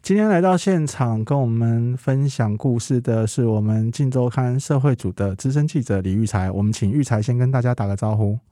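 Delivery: muffled behind a face mask; through a face mask. Real, not acted. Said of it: "所以我们都还是戴着口罩录音".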